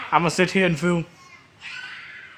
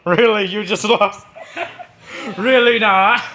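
laughing; 2 semitones higher than usual. Real, not acted. Teasing a kid who lost.

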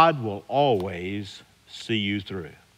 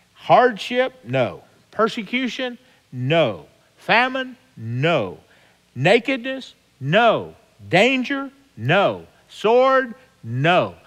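each trial called out much higher and louder, each answered with a firm no; emphatic call and answer; 7 semitones higher, 4 dB louder, slower than usual. Acted. Preacher answering Paul's list to his flock, high loud call and answer. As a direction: hurl each trial out, then slam it down with no. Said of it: "But then he says, "No".

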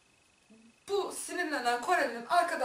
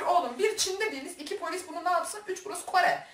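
higher-pitched, counting off each point; retold exasperated scolding; 6 semitones higher than usual. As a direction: set him straight, point by point. (tane tane azarlar gibi)

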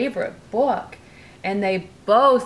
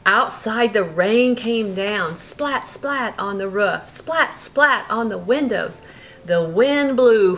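lively bedtime storybook reading; reading to a child; 3 dB louder than usual. A narrator's reading. Parent reading a bedtime story to Brooklyn, lively. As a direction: read it like a bedtime story to a little one. Reading picture book aloud.

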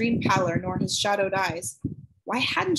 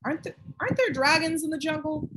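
mouth full; 7 semitones higher than usual. A narrator's reading. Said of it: "she spoke through a mouthful".

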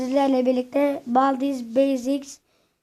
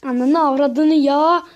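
angry cursing; 5 dB louder, slower than usual. Real, not acted. Cursing at the game.

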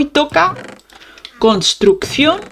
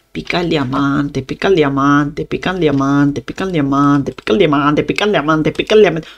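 lower, repetitive chant of a nagging thought; imagined viewer's obsessive thought; 4 semitones lower than usual. Acted. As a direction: loop it monotonously like a viewer's fixation. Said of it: "estás temblando y pensando".

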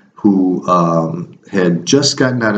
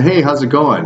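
bright friendly hello, a touch higher; cheery greeting; 6 semitones higher than usual. Retold or imitated.

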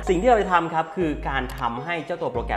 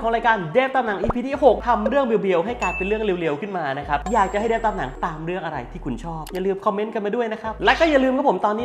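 higher, brighter show-host sign-off; upbeat outro; 7 semitones higher than usual. Acted. Host wrapping up the episode for viewers, upbeat outro.

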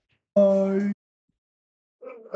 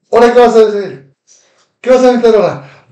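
taunting challenge; 4 dB louder, faster than usual. Real, not acted. Taunting rival in rant.

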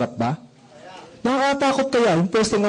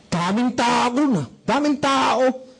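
slow lament; 4 semitones higher, much slower than usual. Pretend. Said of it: "sabihin ko".

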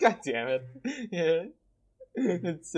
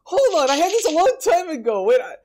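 surprised; 5 dB louder than usual. Real, not acted. Shocked they never played this.

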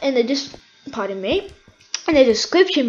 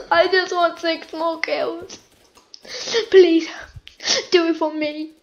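emotional pleading; 3 semitones higher than usual. Real, not acted. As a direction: beg as if close to tears. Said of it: "I don't know why I'm getting this emotional".

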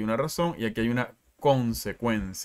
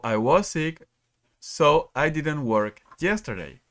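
slow model reading; 3 semitones higher, slower than usual. Shown as a demonstration.

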